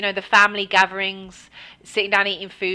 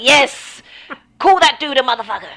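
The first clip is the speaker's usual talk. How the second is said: laughing egging on; 5 semitones higher, 6 dB louder than usual. Retold or imitated. Cheering sister's road rage.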